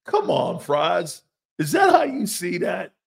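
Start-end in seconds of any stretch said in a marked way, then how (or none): 1.6-2.9 loud, shouting repeat; shouted disbelief. Pretend. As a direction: shout the question out.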